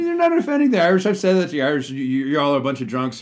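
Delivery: loud playful teasing. Real, not acted. Excited joking rant about the Irish.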